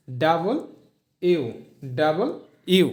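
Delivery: ডাবল ইউ, said as two clear words; full letter name. Shown as a demonstration. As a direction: say ডাবল ইউ, not ডাব্লিউ. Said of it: "কি উচ্চারণ হবে". (ডাব্লিউ না বলে ডাবল ইউ)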